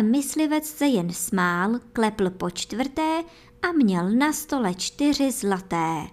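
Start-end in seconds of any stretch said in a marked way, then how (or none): none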